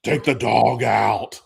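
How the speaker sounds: slow, lightly voiced Batman order. Dad ordering the kids in mock Batman voice. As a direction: drag the order out like a mock caped hero. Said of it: "in a Batman voice".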